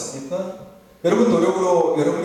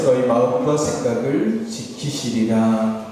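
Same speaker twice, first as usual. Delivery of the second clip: scripture read aloud; 2 semitones lower than usual. Real, not acted. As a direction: read the verse out with the church in a firm, carrying voice. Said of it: "말씀 우리 함께 같이 읽어볼까요".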